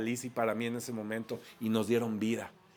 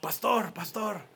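Israeli groom calling out, pitched high; Israeli accent; 8 semitones higher, slower than usual. Retold or imitated. Israeli groom hails his pastor, Israeli accent. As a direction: imitate an Israeli-accented Spanish, high and eager. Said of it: "con su acento así padrísimo".

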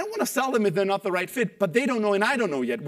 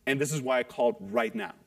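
calm caller intro; 6 semitones lower, 4 dB quieter than usual. Shown as a demonstration. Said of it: "You go".

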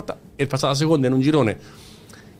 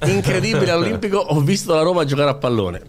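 breathless italian goal commentary; 7 semitones higher than usual. Acted. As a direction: open like a goal call, pitched up. Dramatic opener over theme music.

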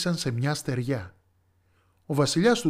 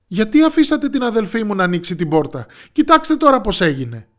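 loud, higher furious scolding; angry scolding; 5 semitones higher, 8 dB louder than usual. Acted. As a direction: tell off the servants for letting it happen. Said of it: "φώναξε". (θυμωμένο, δυνατό μάλωμα)

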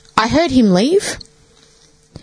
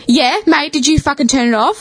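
high-pitched mimic of the brother; lightly voiced brother, half accusing; brother's suspicious question; 6 semitones higher than usual. Brother asking her about the TV, lightly mimicked high. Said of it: "He's like".

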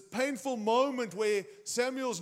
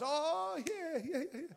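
excited Jesse; 7 semitones higher than usual. Acted. Jesse answers Samuel excitedly.

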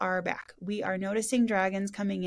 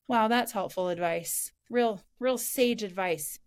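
sarcastic; slower than usual. Real, not acted. Mocking useless spirit advice.

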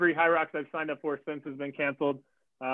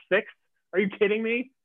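mock outrage, climbing sharply on the last question; retold disbelief; 7 semitones higher, 5 dB louder than usual. Runner recounting his shock at sixth place, incredulous. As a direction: build from usual voice to high, loud incredulity. Retelling shock at race placing.

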